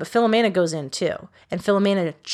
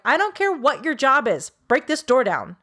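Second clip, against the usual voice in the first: higher-pitched, mock-exasperated order; retold insistent demand; 5 semitones higher than usual. Roommate ordering reluctant police to break the door, insistently. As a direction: imitate someone pushing back hard on a refusal.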